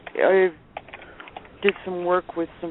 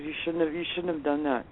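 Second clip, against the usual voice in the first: soft warning; 7 dB quieter than usual. Retold or imitated. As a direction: quietly let him know it's a mistake. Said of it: "Brett goes".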